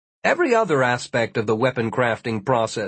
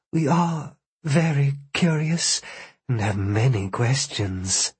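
sultry hostess voice. Acted. Seductive blonde copies offering hospitality.

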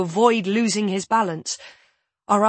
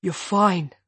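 calm, gentle reassurance; soft and level. Acted. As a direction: soothe her evenly. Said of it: "His voice is soft and level".

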